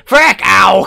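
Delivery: high, loud cry of frustration; sudden loud gamer outburst; startled yelp. Real, not acted. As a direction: yelp as the game hits you. Hurt suddenly in the game.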